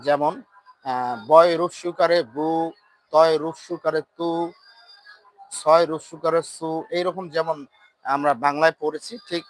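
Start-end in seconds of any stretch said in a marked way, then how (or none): 1.3-6.8 bu, tu, su with the Bengali u vowel; pesh as short Bengali u. Shown as a demonstration. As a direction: spell out each syllable ending in u. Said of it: "রস্যুকারের মতো".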